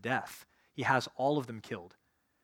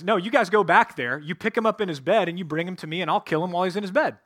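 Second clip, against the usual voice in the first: loud angry king; 5 semitones higher, 8 dB louder than usual. Retold or imitated. Saul orders messengers, retold.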